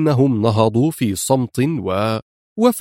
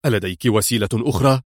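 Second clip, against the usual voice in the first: stern; faster than usual. Acted. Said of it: "سألها في صرامة".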